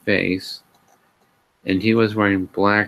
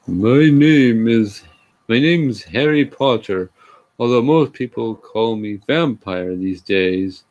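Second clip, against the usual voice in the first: mock grumbling; 4 dB louder than usual. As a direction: grumble it out like a sulky goth boy. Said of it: "he grumbled".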